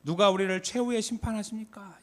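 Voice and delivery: high, loud challenge to a crowd; preacher's rally question. Retold or imitated. Late pastor questioning the gathered youth, loud rousing question. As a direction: throw the question out to thousands. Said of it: "이렇게 물어봐요".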